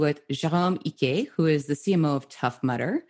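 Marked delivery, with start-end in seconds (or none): 0.3-1.3 name said with a light French accent; a touch of French accent on the name. Real, not acted. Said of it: "I used my French accent for your name".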